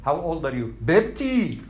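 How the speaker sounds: mock Indian accent. Shown as a demonstration. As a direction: put on an Indian accent for a joke. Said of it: "the Indian accent is".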